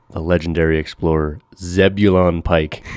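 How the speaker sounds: mock-epic introduction, stretched out; grand announcement. Shown as a demonstration. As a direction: savour Zebulon Pike like a big reveal. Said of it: "now brace yourself, 'cause this guy's name is fantastic".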